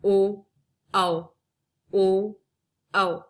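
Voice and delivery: ओ and औ sounded out one by one; teacher sounding out ओ and औ; vowel demo. Shown as a demonstration. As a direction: contrast ओ with a rounded औ. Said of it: "उच्चारण में भी अंतर होता है".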